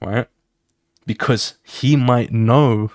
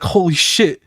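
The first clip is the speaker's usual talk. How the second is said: breaking down; 7 semitones higher than usual. Retold or imitated. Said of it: "she starts breaking down".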